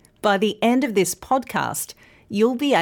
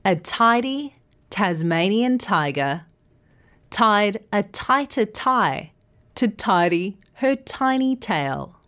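careful tongue twister. Shown as a demonstration. Teacher leading learners through the twister. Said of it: "let's try that tongue twister".

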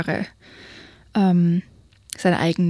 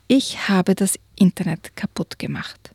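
ashamed; 5 dB quieter than usual. Acted. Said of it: "sagte die Oma beschämt".

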